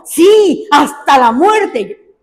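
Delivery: Jonah yelling back at God, stretched out slow; angry shout. Retold or imitated. Preacher voicing Jonah defiantly answering God, angry shout. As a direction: fling it back furiously, dragging the last words.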